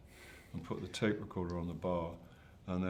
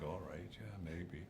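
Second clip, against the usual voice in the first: reluctant agreement; 9 dB quieter, slower than usual. Retold or imitated. Welsh pub-goer half agreeing to be recorded, reluctant. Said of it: "They were like".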